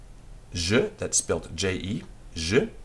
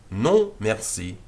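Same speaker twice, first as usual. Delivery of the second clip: slower repeat; 3 dB louder, slower than usual. Shown as a demonstration. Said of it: "That's the normal way of saying no".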